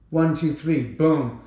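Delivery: ordinary talk, nothing marked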